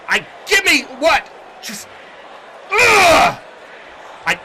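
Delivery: high, shouted, frustrated rant with growls of exasperation; sputter, then explode on the curses; angry wrestler. Acted. Wrestler raging at being treated like a joke, loud and exasperated. Kane keeps ranting.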